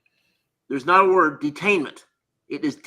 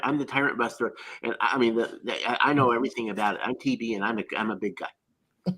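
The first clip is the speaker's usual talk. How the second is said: Tyrant Buster impression; 4 semitones lower, 4 dB quieter than usual. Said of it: "my Tyrant Buster's impression".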